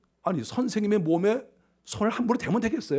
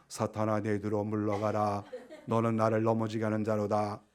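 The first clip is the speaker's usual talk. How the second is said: mock gentle; 12 semitones lower, 10 dB quieter than usual. Preacher doubts the Lord spoke so nicely, mock-gentle and low. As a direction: say the rebuke meekly, like a hushed blessing. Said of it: "좋은 말로".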